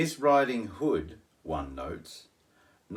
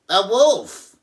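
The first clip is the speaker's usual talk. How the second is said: high, loud panicked squeal; panicked cry; 10 semitones higher, 10 dB louder than usual. Acted. Pig cries to Miss Hood in panic, loud. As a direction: shriek the word out. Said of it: "Pig cried".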